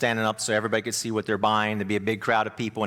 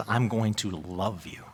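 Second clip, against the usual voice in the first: gentle loving husband. Retold or imitated. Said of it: "treats her lovingly and gently".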